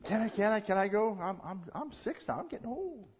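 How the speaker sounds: put-on high-pitched, repetitive child's plea; begging little boy. Six-year-old begs Mom to let him go, pleading. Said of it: "Another little guy says".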